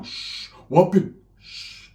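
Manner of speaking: slow, hushed shushing. Retold or imitated. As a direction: hush him in the dark. Hushing cousin in dark field.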